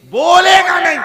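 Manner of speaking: sudden high, loud outburst; a preacher's shouted punchline; shouted refrain. Acted. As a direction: fling the line out at full force. Shouted refrain after long list.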